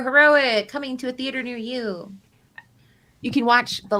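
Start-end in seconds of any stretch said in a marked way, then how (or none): 0.0-2.1 booming movie trailer voice, louder; mock cinema announcer.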